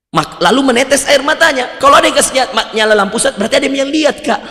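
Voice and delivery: insistent complaint; indignant protest. Retold or imitated. Worshipper argues with the ustaz, loud and indignant.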